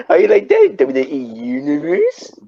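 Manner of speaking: loud, high hammy promo shout; wrestling promo voice. Pretend. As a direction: call out the crowd like a heel. Mock wrestling promo callout.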